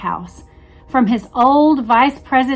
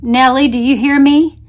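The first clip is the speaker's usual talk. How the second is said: shouting; 6 dB louder than usual. Retold or imitated. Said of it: "L B J shouts into the television".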